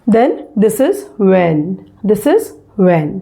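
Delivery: "when" said as वेन, no h, slowly; slow modelled when. Shown as a demonstration. Teacher slowly modelling when for students. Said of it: "इसमें भी व का ह ... उच्चारित नहीं करना है".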